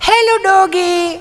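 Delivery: hammed-up baby talk to a dog; exaggerated coo. (ખૂબ ઊંચા સૂરે ધીમું લાડભર્યું બોલાવવું)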